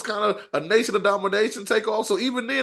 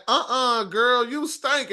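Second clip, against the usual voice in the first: imitating sassy talk; 2 semitones higher, much slower than usual. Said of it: "Bianca Belair saying stuff like".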